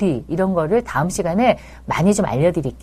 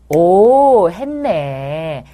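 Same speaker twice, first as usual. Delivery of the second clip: toned-down praise; 2 semitones lower, 3 dB louder, much slower than usual. Shown as a demonstration. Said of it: "이 정도만 돼요".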